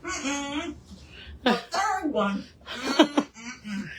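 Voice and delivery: talking through a mouthful; mumbled while chewing; mouth full. Real, not acted. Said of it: "With your mouth full?".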